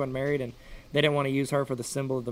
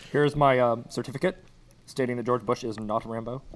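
lightly voiced presidential statement; a hint of official statement voice; Obama; 3 semitones lower than usual. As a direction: imitate a president, slightly rushed. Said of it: "I did it fast again".

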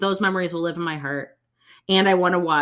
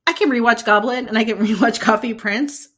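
excited self-quote; 5 semitones higher than usual. Retold or imitated. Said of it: "I'd also be like".

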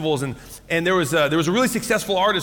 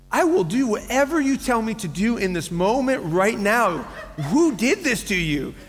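doting dad; 3 semitones higher than usual. Retold or imitated. Dad promising crying daughter anything.

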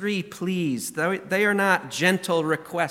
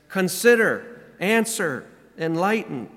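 urgent appeals; 2 semitones higher than usual. Retold or imitated. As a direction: cry each word out as a plea. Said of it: "They're urgent appeals".

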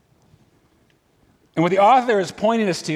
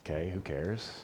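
whispered shrug, much softer and lower; dismissive whisper; 12 semitones lower, 15 dB quieter than usual. Retold or imitated. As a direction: toss it off under your breath, unimpressed. Voicing a dismissive listener.

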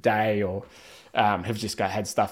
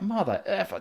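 mock angry swearing; 10 semitones higher, 4 dB quieter than usual. Imitating a contestant who slipped down a hill, mock angry. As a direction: imitate a man losing it over a small slip. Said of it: "dropping F-bombs left, right, and center".

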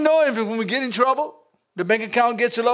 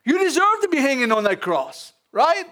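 higher, pointed scolding of the other thief; indignant rebuke; 6 semitones higher than usual. Retold or imitated. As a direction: jab each "you" at him, voice raised. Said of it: "He said".

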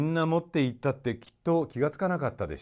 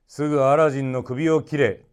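angry king; 4 semitones higher, 8 dB louder than usual. A narrator's reading. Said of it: "とおっしゃいました".

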